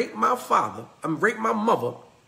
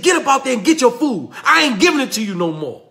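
fast, louder, higher nagging; scolding; 4 semitones higher, 4 dB louder, faster than usual. Retold or imitated. Rose scolding Kunta to get up, fast and louder. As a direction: push him out of bed, quick and sharp.

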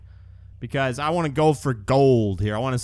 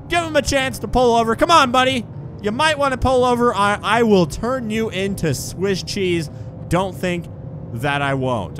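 mock threat; 6 semitones higher, 4 dB louder than usual. Threatening fleeing driver over gun.

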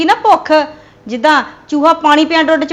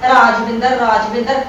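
mocking husband's pining; 7 semitones lower than usual. Wife mocking her husband's pining for Rajwinder, low mock moan. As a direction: mimic a lovesick husband moaning her name. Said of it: "ਮੱਛੀ ਵਾਂਗੂ ਤੜਫਦਾ ਫਿਰਦਾ ਆ".

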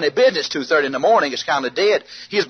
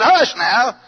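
exasperated hushing; 6 semitones higher than usual. Retold or imitated. Exasperated hushing of whooping friend.

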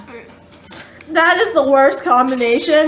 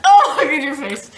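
laughing. Real, not acted. Laughing at sibling's reaction.

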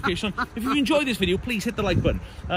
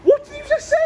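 shouting back; 13 semitones higher than usual. Real, not acted. Friends yelling at each other between floors. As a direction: bellow it across the house. Shouting argument through house.

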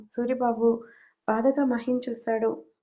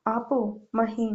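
slow angry; slower than usual. A narrator's reading. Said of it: "ఆవేశంగా మాట్లాడుతున్నావు".

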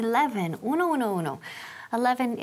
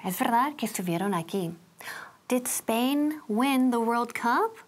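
whisper. Shown as a demonstration. Teacher whispers aside.

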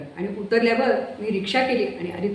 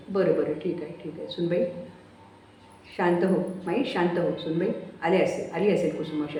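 soothing. Acted. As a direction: settle them down gently. Nana calms both women.

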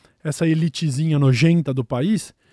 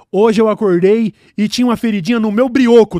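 mock preacher line; 2 semitones higher, 5 dB louder than usual. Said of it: "Ele pode falar o que quiser".

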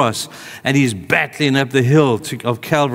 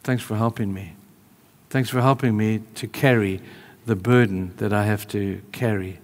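quiet gratitude; 2 semitones lower, 5 dB quieter than usual. Retold or imitated. Jesus thanking Simon on the way, quietly grateful. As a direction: thank a friend gently, softly. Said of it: "Eyes full of gratitude to say".

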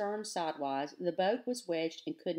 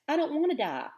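pitched-up, louder outburst; blurted cry; 7 semitones higher, 7 dB louder, faster than usual. A narrator's reading. Girl raging against dying, to Tuck, loud blurted cry. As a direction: blurt it out, helpless and insulted. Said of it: "She raged against it ... blurted at last".

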